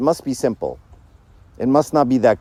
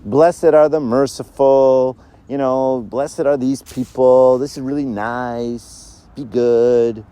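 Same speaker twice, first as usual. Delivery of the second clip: gentle beatitude; much slower than usual. Retold or imitated. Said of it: "He would say".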